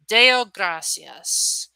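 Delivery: slow, drawn-out, appreciative Deo gratias; grateful and unhurried. Shown as a demonstration. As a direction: savor each syllable of "Deo gratias" gratefully. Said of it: "it has more of an appreciation vibe to it".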